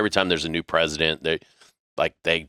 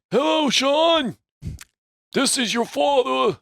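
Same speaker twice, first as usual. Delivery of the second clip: Northeast dialect. Retold or imitated. Roommate's diplomat father leaving a message, mock Northeast dialect. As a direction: do a mock Northeast patrician on the phone. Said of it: "like, Northeast, uh, dialect".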